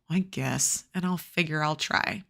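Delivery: low, soft grudging mumble; mumbled. A narrator's reading. Liam mumbles grudgingly to Dad, low and soft. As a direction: mumble it reluctantly under the breath. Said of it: "But I mumble".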